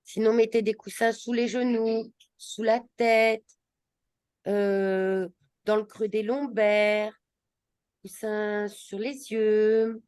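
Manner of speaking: unhurried settling-in guidance, words drawn out at the end; yoga instruction. Acted. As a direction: guide them slowly into a comfortable position. Leads class into relaxation posture. (consigne de yoga posée, fins de phrases étirées)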